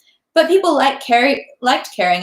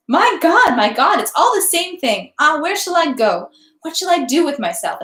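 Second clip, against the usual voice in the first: restless despair; 6 semitones higher than usual. A narrator's reading. Natasha restless, stamping her foot.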